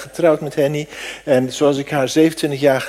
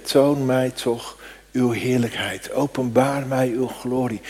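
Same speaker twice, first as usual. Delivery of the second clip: slow earnest prayer; 4 dB quieter, slower than usual. Acted.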